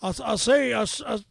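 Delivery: stammering Southern attempt; faltering Southern bluster; Southern accent. Shown as a demonstration. Stuck on a requested accent, Southern accent. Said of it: "Southern accent".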